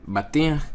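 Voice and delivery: Batiach said high and loud, Arabic style; Arabic word said. Shown as a demonstration. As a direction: say Batiach crisply, stress on the tiach. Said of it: "And in Arabic is batiach".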